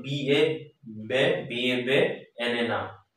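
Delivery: বি এ, then বে, each part separate; teacher spelling a word in chunks; spelling out by syllable. Shown as a demonstration. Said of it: "বলে হচ্ছে ট্রাইসিলেবেল".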